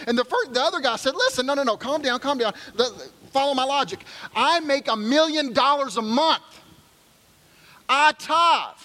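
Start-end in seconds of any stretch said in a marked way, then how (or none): 1.1-8.8 high, slow knowing punchline delivery; smug calm rich man. Acted. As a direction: savor the punchline.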